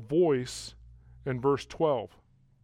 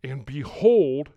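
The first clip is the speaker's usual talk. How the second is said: "behold" stretched out and louder; emphatic proclamation; 6 dB louder, slower than usual. Real, not acted. Preacher announcing something spectacular to come, emphatic proclamation. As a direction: proclaim BEHOLD slowly, with weight. Preacher rereads the attention word.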